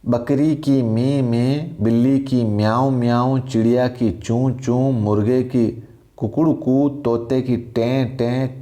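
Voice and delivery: sing-song list of animal sounds; animal sounds recited. Shown as a demonstration. Teacher reciting animal sounds for the class, sing-song. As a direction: chant the animal noises like a nursery list. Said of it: "इस आवाज़ों को ध्यान से समझ लेना".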